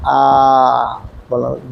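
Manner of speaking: आ drawn out slowly; long vowel. Shown as a demonstration. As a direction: hold आ for two seconds. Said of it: "आ में ज़्यादा समय लगता है". (आ दो second तक खींचें)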